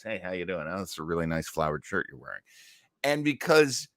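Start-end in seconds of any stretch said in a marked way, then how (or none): 0.0-2.4 robot greeter voice. Retold or imitated. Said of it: "providing his voice".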